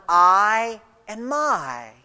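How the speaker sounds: "I" and "my" each held out and set apart; emphasized words. Shown as a demonstration. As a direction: lean on "I", then let "my" fall. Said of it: "Again, notice the emphasis on".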